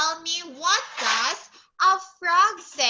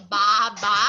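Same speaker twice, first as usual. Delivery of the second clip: loud, lower-pitched double baa; sheep bleat; 4 semitones lower, 5 dB louder than usual. Shown as a demonstration. Teacher contrasting sheep with goat, bleating. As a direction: bleat two baas like a sheep. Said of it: "The sheep says".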